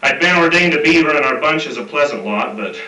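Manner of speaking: reciting a rhyming cowboy poem; cowboy poetry. Acted. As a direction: read it like a campfire cowboy verse. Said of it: "it's somewhat of a cowboy poem".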